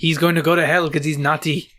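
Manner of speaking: put-on Hispanic accent; hammed-up Hispanic-accented ghost; Hispanic ghost impression. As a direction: play a scolding ghost with a mock Hispanic accent. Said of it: "you don't talk like that".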